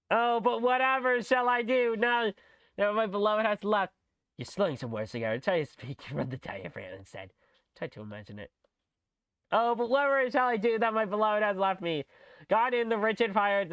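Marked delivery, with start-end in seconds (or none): 0.1-3.9 louder, higher theatrical lament; louder dramatic. Acted. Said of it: "Say it louder". 9.5-12.1 whatever lifted and pressed hard; stress on whatever. Acted. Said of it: "put more emphasis on whatever".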